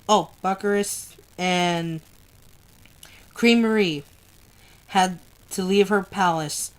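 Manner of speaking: measured novel read-aloud voice; story narration. A narrator's reading. Reader sharing a war novel's sad chapter, story narration. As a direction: read the story aloud in steady, deliberate phrases.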